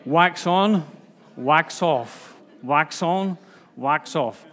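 playful imitation of the Karate Kid master's accent; Mr Miyagi accent. Preacher mimics Mister Miyagi's accent for the congregation. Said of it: "I'm gonna get into trouble for doing accents".

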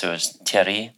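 put-on Thierry in a light French accent. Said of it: "excuse my French accent".

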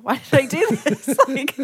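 loud laugh then a rueful question. Real, not acted. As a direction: laugh it out in disbelief. Laughing at dream haircut.

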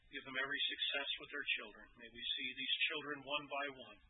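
earnest pastoral prayer voice; closing prayer. Acted. Pastor prays over the young families, earnest. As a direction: pray over the congregation.

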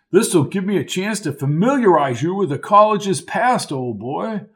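lightly voiced old Lark, high and jolly; a hint of a jovial old-timer calling him old boy; hearty old college man. Lark's character voice.

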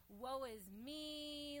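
slow, drawn-out mock self-pity. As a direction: moan it like a sad sack. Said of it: "just like".

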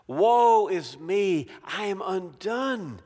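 slow, stretched woe that drops away; slow lament. Acted. Preacher voicing Isaiah's slow broken lament. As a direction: wail it slowly then let it sink. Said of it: "he says".

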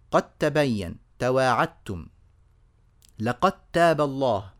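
careful recitation with "qat-tabayyan", "tawa'attum", "laqat-taba"; الدال merged into التاء. Shown as a demonstration. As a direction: turn the d of قد, تواعدتم, لقد into a doubled t. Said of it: "الدال مع التاء". (إدغام الدال في التاء في "قد تبين" و"لقد تاب")

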